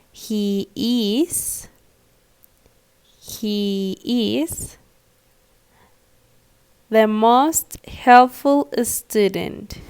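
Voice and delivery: slow, drawn-out reading with stress on helpful; slow dictation. Shown as a demonstration. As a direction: read it slowly so students can fill the gap. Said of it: "So what words are we missing?".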